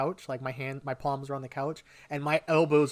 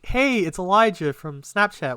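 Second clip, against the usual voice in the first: higher, louder retold hello; upbeat phone greeting; 5 semitones higher, 7 dB louder than usual. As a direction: greet her brightly, as re-enacted. Acting out his phone greeting to her.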